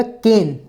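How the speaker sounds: केन with a long ay vowel; cane, long vowel. Shown as a demonstration. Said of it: "अगर मैं इसको silent ई लगा दूँ".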